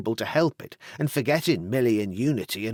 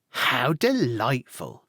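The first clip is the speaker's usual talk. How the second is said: delighted; slower than usual. Acted. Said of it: "broke out Hannah, quite loud".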